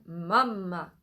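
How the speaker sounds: a low "mama". Shown as a demonstration. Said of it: "And low one".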